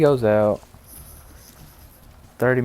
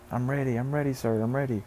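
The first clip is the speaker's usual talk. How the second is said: eager readiness; 4 semitones higher than usual. Retold or imitated. Henry eagerly offers himself.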